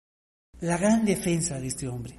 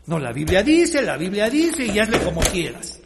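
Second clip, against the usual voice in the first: mocking dismissive leaders; 5 dB louder than usual. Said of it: "¡Wow! ¡Cuánta oscuridad".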